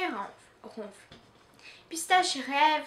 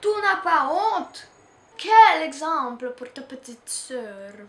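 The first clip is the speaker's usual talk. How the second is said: furious scolding; 2 semitones higher, 9 dB louder than usual. Acted. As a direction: shame her in front of everyone. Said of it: "Il a l'air furieux".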